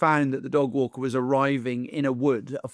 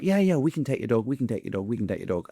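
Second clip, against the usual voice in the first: fading mock eagerness; faster than usual. Mocking cheap dog walker.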